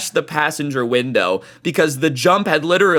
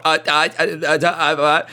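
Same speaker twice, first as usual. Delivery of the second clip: stammering; 5 semitones higher than usual. Retold or imitated. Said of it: "trying to stammer out".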